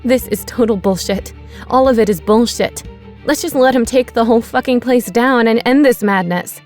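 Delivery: Becky vents furious bitterness at Pete; rising fury. Acted. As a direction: let the anger climb to a shout. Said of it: "She gave him a death stare and said".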